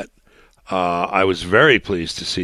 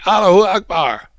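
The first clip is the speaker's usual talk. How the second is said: Allahu Akbar shouted high and loud; imitating a screamed Allahu Akbar; mock scream; 13 semitones higher, 8 dB louder than usual. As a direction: scream it as if in a crowd. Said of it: "if you heard someone screaming".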